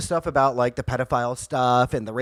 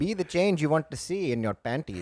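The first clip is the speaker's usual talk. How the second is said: laughing; 8 dB quieter than usual. Retold or imitated. Pun joke through laughter.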